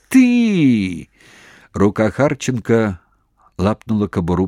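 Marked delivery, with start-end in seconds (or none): 0.1-1.1 sudden high, loud bark of rage; furious outburst. A narrator's reading. Major flares up at the prisoner's insolence, furious. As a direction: explode at him.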